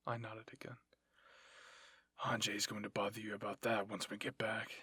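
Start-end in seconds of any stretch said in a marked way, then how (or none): 2.2-4.7 lower, husky character voice; a low, matter-of-fact warning; lightly put-on low voice; lightly voiced soldier. Levi voiced to injured girl.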